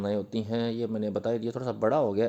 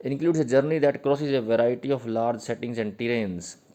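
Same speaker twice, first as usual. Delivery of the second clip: slow dictation; 5 dB louder, much slower than usual. Shown as a demonstration. Dictating English definition to students.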